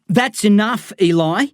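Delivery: put-on stern father figure cutting the boy off; barked. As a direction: snap it out to shut him up. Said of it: "Lyle barks".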